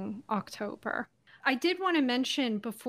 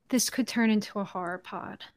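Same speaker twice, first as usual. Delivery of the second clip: whispering. Real, not acted. Joking aside to co-host.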